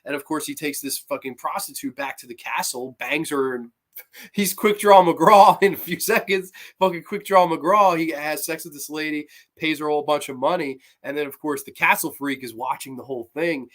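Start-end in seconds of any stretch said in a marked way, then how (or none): 3.5-8.0 laughing. Real, not acted. Laughing while mocking the quick sex.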